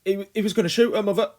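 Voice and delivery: high, loud, quick plea; frightened boy rushing his excuse; hurried boy. A narrator's reading. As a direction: blurt it out to Mother. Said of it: "he said quickly".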